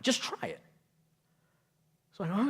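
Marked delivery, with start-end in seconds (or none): 0.0-0.6 soft unvoiced retold whisper; whispered advice. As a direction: breathe it like a quiet nudge. Wife's quoted advice, whispered.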